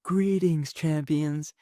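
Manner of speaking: half-yelled proclamation; Darkseid. Retold or imitated. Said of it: "and just yells".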